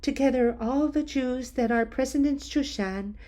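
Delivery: a hint of a queen steeling herself to risk her life; Queen Esther. Esther tells Mordecai she will go to the king, resolute.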